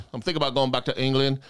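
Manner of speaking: lightly put-on British accent; first of two British accents. Shown as a demonstration. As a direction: chat casually in a British accent. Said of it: "did two different British accents".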